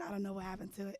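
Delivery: ordinary delivery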